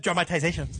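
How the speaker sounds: Dramatization with every syllable spelled out; carefully over-pronounce Dramatization; over-enunciated. Retold or imitated. Telling co-host it sounded weird, over-enunciated. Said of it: "sounds weird when you said".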